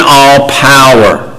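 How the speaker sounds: "all" drawn out and weighted, slow; slow weighty "all power"; stress on all. Acted. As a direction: lean slowly on "all". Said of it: "the emphasis there is".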